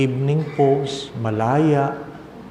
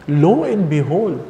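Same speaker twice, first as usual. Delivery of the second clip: dramatic flourish; 4 semitones higher, 4 dB louder than usual. Real, not acted. Dramatic announcement slowed.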